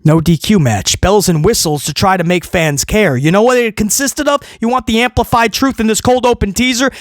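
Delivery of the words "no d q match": flat deadpan. Real, not acted.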